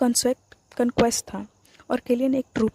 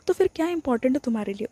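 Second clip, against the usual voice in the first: helpless; 3 semitones higher, faster than usual. Acted. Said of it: "almost helpless tone में पूछा".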